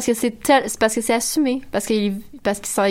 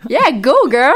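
cheering; 3 semitones higher, 6 dB louder than usual. Retold or imitated. Mock cheer quoted for fan.

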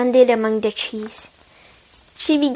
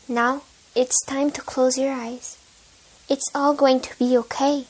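tucking in at bedtime; 4 dB quieter than usual. Real, not acted. Bedtime close after story.

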